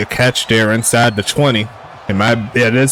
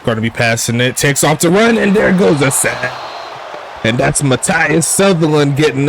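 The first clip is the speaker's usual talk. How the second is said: play-by-play call; 3 semitones higher than usual. Real, not acted. Calls a sack live.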